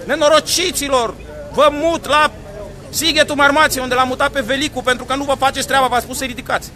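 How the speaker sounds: imitating a boss yelling. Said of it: "țipă el".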